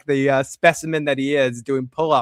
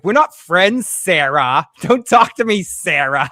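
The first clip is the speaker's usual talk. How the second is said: mock snub, higher and louder; Sarah'yı tersleyen kadın taklidi; 3 semitones higher, 4 dB louder, slower than usual. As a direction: push back at Sarah, punching the first words. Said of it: "she's like".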